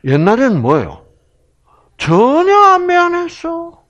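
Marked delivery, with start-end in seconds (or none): 2.0-3.8 mock proud. Boasting of past indifference.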